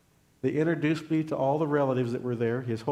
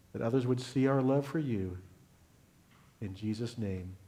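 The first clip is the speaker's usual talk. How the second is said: closing prayer. Real, not acted. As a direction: pray for the congregation, hushed at the close.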